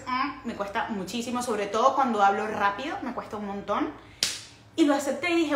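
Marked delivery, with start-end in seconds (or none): 0.1-0.5 "mm" as a French nasal sound; nasal sound demo. Shown as a demonstration. Vlogger shows the French sound she finds hard, nasal "mm". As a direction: say "mm" through the nose, as a French nasal. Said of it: "me cuesta hacer".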